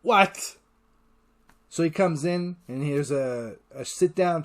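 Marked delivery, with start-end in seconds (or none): 0.0-0.6 high, loud shocked cry; shocked what. Retold or imitated. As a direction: blurt it out in disbelief. Shocked reaction to fake antidote.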